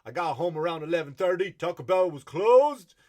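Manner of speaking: mock rap shout building to a holler; yelling pointless lines. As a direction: shout it high, dragging out the last words. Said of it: "They just yell pointless shit".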